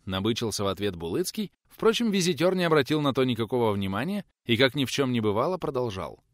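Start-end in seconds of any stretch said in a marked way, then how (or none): none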